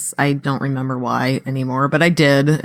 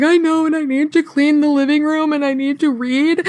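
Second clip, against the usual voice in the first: put-on much higher little-kid voice; high-pitched, dutiful kid; imitated young son; 10 semitones higher than usual. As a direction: mimic an earnest child promising chores. Voicing her contrite eight-year-old son.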